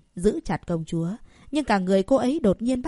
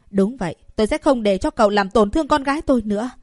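through gritted teeth; 3 semitones higher, 6 dB louder, faster than usual. Acted. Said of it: "cắn răng nói".

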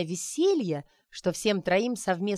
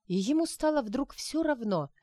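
usual speaking voice

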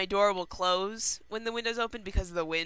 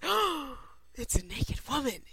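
mock shocked; 5 semitones higher than usual. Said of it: "shocked by them".

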